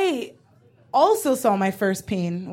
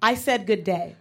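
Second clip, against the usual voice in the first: British model line; 3 semitones lower, 3 dB quieter than usual. Shown as a demonstration.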